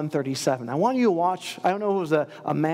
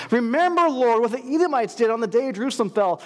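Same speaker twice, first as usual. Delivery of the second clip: urgent loud plea; 5 semitones higher, 3 dB louder than usual. Acted. Repeated plea, much louder.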